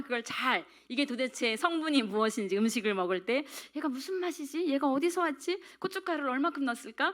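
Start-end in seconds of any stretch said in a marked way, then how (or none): 3.7-7.1 higher-pitched wondering questions; pondering aloud. Acted. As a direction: wonder to yourself what is in it. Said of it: "막 이렇게 생각하게 되잖아요".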